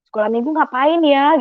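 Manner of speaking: mildly puzzled self-questioning; retold bewilderment. Newcomer wondering what Sunday school involves, mildly puzzled. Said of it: "saya masih bingung kan gitu".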